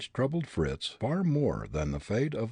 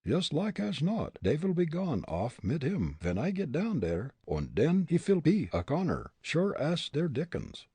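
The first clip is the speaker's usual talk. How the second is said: put-on German accent; 7 semitones higher than usual. Fritz's German-accented dialect speech.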